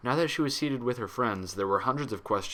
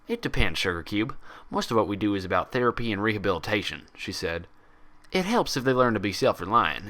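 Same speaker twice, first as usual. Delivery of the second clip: Applejack voice. Acted.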